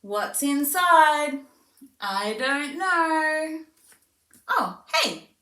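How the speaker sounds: high, slow, sing-song wonder; slow teasing sing-song for a toddler; playful demo to child. Shown as a demonstration. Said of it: "we'll do another one".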